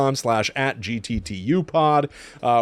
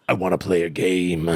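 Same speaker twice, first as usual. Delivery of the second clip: ghost voice; 6 semitones lower than usual. Retold or imitated. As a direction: croon it like a haunting ghost. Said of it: "You sound like a ghost".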